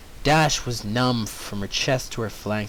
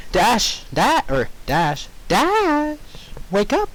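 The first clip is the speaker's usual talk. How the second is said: higher, urgent call to wake her; calling out as Pinkie; 8 semitones higher, slower than usual. Acted. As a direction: Pinkie shouts the pony awake. Pinkie calling Dash awake.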